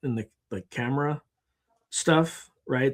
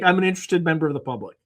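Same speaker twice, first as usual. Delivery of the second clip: quick, rattled-off stock line; rapid flat reply; 4 semitones higher, faster than usual. Retold or imitated. Woman nervously blurting her stock answer to Mike. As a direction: rush it out like a memorized answer. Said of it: "She's just like".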